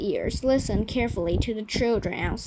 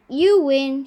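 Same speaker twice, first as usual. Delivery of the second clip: shouting; 3 semitones higher, 7 dB louder than usual. A narrator's reading. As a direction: call out cheerfully. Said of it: "shouted Jaya".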